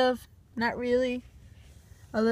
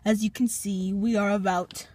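hushed wildlife narrator; nature documentary; 3 semitones lower, 4 dB quieter than usual. Pretend. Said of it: "welcome to the documentary of the wild Walmart cat".

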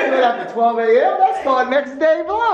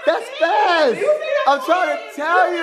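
higher, excited insisting; insistent; 5 semitones higher, much slower than usual. Real, not acted. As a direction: insist she's fast, higher and emphatic. Insisting loudly in a debate.

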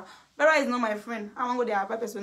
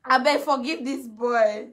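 pleading; 4 dB louder, slower than usual. Retold or imitated. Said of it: "Now say".

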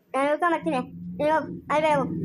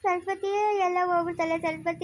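tearful wailing; 4 dB quieter than usual. Acted. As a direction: lament through tears. Robbed woman laments to neighbour. (ಅಳುತ್ತಾ ಗೋಳಾಡುವುದು)

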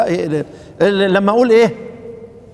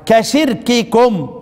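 slow demo; much slower than usual. Shown as a demonstration. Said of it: "طيب".

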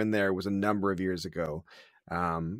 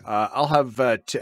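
put-on Scottish accent; 6 dB louder than usual. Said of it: "I just faked my biggest Scottish accent".

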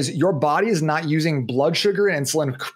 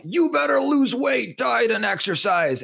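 nagging inner voice; 8 semitones higher, slower than usual. Retold or imitated. Scolding inner voice about dieting.

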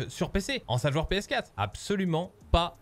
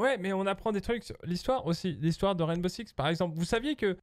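élève qui argumente; 4 semitones higher than usual. Pretend.

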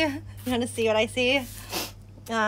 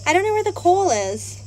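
calling out; 7 semitones higher, 5 dB louder than usual. Real, not acted. Calls out, can't find coal.

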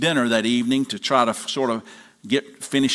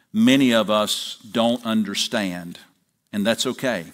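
public prayer; 3 semitones lower than usual. Acted. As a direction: lead the congregation in prayer, settling into a hushed amen. Pastor leads congregation in prayer.

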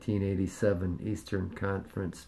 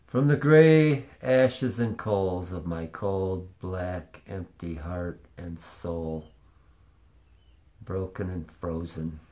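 mock dramatic poem; 3 dB louder, slower than usual.

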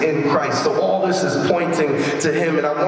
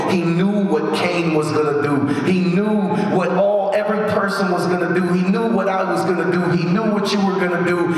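quick, high-pitched preaching run; impassioned preaching; 3 semitones higher, faster than usual. Real, not acted. Preacher telling church that He knew every person's deeds, impassioned. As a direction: rattle off the refrain with mounting insistence. Preacher builds a driving refrain.

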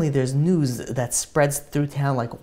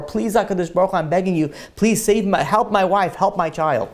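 mildly pleading, a touch higher; retold tearful prayer; 3 semitones higher than usual. Husband prays for wife and child, mildly pleading. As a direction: imitate a desperate prayer, without sobbing. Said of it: "He started crying and davening".

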